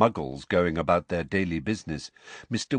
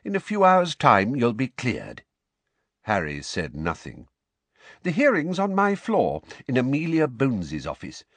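higher, kindly explaining; Mister Weasley voice; 4 semitones higher than usual. Acted. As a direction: lay it out for Harry gently.

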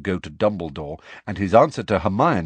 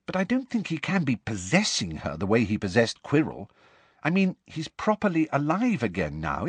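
lightly voiced young girl; 3 semitones higher than usual. Hermione voiced by narrator.

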